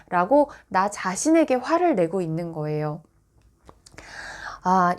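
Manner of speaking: ordinary talk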